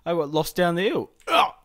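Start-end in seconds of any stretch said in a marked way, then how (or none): 1.3-1.5 short joking groan; playful strained "ugh"; mock exertion grunt. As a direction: grunt as if worn out from a hike. Jokes about falling down the hill.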